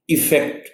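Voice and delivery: ایفیکٹ with the weight on the opening e sound; teacher modelling ایفیکٹ with first-syllable stress. Shown as a demonstration. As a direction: lean on the start of ایفیکٹ. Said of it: "stress ایف پر ہے".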